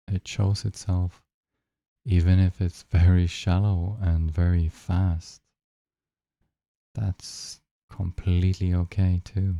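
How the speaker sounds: unhurried meditation guide with long pauses; guided meditation. Real, not acted. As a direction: guide listeners gently into the breath, leaving long silences.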